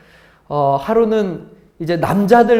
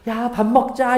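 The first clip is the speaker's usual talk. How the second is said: gentle and kind; 4 semitones higher than usual. Shown as a demonstration. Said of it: "부드럽고 상냥한 말".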